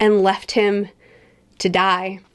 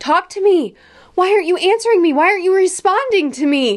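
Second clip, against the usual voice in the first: mock shrill, desperate, very high scream; 10 semitones higher, 3 dB louder than usual. Retelling an anime scene where a character screams at people not answering, retelling a screamed plea. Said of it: "He was screaming out".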